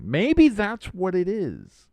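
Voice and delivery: high, slow, loud Clinton drawl; slow Southern Clinton drawl; Bill Clinton impression. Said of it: "I'm doing the Bill Clinton here".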